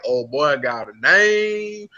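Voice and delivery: mock tough-guy warning; slow menacing Booby. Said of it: "Booby was like".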